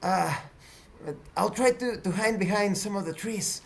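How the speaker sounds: Arisa. Acted. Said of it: "Arisa speaks".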